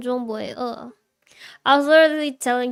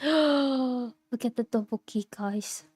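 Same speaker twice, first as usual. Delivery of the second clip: awed whisper; slower than usual. Real, not acted. Awed at food on screen.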